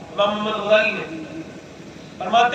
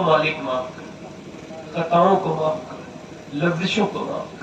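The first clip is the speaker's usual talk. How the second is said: humble prayer; 2 semitones lower, 5 dB quieter, slower than usual. Shown as a demonstration. Preacher shows the crowd how to pray, humble soft plea. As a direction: ask forgiveness gently and humbly. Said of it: "اس سے کہو".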